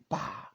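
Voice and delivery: sudden exclaimed "pah" for magic; magic poof sound. Retold or imitated. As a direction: pop it out like an instant magic trick. Mimics magic happening instantly.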